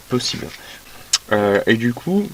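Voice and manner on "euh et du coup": talking around a pen in mouth; words blurred by a pen held in the mouth. Real, not acted. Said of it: "parler avec un stylo dans la bouche".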